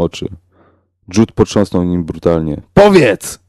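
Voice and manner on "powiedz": loud, high shout; sudden cry, sharply higher and louder; shouted demand. A narrator's reading. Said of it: "krzyknął".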